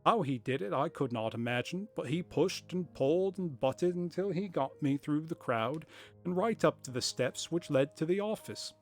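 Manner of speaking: lightly voiced, hammed-up corny accent for Jabez Wilson; corny put-on accent. Wilson telling Holmes about the crowd, in a corny put-on accent. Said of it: "it's kind of fun, though. I think I'll keep doing it".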